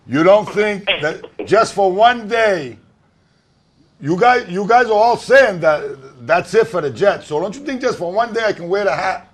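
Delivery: caller breaking up on the line; choppy phone line dropping out; bad connection. Real, not acted. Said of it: "You're breaking up".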